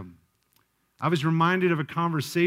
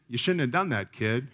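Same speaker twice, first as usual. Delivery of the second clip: matter-of-fact parental reproof; unsympathetic scolding; 5 semitones lower than usual. Acted. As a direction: scold the kid without any sympathy, mildly. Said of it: "My natural reaction is".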